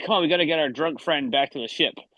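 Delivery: urging, rallying, take-charge tone. Speaking in character while hauling a companion along: said loudly. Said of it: "I say loudly".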